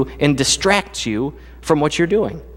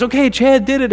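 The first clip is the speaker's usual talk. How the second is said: coach announcing; 10 semitones higher than usual. Retold or imitated. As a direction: call it out like a relieved coach. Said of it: "And he goes".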